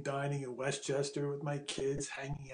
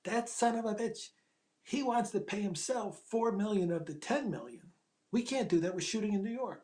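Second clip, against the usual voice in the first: phone yelling; 6 semitones higher than usual. Retold or imitated. Producer yelling at the writer on the phone, high and fuming. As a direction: vent down the phone, pitch up. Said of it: "Rick is yelling at me on the phone".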